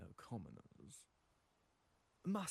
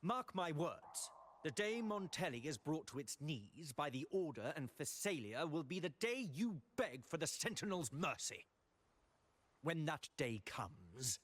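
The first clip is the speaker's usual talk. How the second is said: menacing threat; 4 semitones higher than usual. Acted. Order official threatening Carlotta, rising menace. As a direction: swell into a threat.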